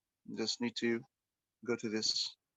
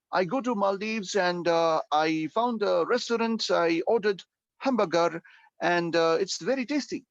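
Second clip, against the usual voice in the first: basic learner English; 3 semitones higher than usual. Shown as a demonstration. Teacher mimics a basic band four answer. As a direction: play a weak speaker with plain words. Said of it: "you said go".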